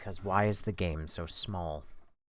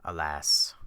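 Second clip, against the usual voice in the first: normal talking voice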